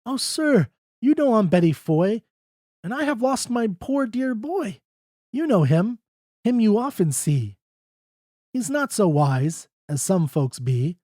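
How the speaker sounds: high, anxious begging; Betty pleading for her lost boy; pleading mother. A narrator's reading.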